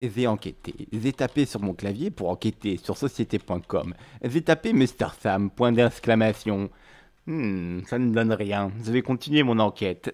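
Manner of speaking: detective voice with a lisp; lisping mock detective. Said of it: "j'ai forcément un zozotement qui me vient quand je fais ce personnage".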